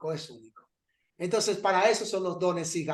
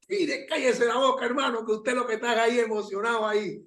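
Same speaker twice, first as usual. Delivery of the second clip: mock scolding; 3 semitones higher than usual. Pastor hushes the young man praying, mock scolding. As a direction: play the pastor cutting him off, lightly.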